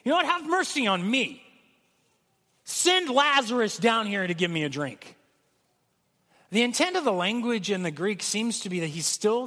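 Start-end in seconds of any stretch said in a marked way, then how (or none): 0.0-5.1 curt, entitled demand, no pleading. Retold or imitated. Preacher voicing the rich man demanding a drink, entitled and curt. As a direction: order it like he's still in charge. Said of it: "I think he's saying".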